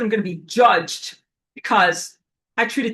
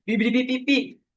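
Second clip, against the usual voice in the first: mock robot beeping; 4 semitones higher than usual. Mimics robot people's nanotech signal.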